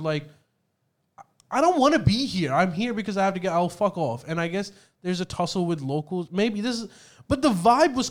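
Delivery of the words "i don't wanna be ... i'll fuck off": grudging attitude. Retold or imitated. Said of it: "they have this attitude of".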